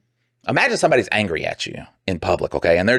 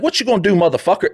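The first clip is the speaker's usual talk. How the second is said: higher, hammed-up challenge; mock tough guy; 10 semitones higher, faster than usual. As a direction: puff up and dare him. Acting the aggressive shoe guy.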